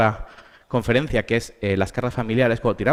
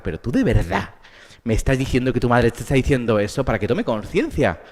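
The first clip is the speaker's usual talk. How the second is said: con sorna. Retold or imitated. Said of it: "me sale con, con sorna".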